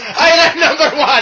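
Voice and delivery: Iron Sheik impression. Imitating the Sheik.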